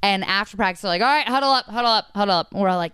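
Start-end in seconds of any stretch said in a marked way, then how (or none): 1.0-2.5 raised coach call, higher; calling the team in. Retold or imitated. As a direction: call them to huddle up. Coach calls team together.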